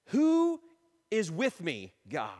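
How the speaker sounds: high, loud, drawn-out opening, then settling; rallying self-talk. Acted. Preacher talking himself out of discouragement, rallying.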